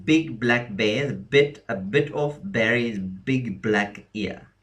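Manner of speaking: slow, distinct recital of an alliterative rhyme; mnemonic rhyme. Shown as a demonstration. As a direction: recite the tongue-twisting rhyme slowly, word by word. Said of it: "came up with the rhyme".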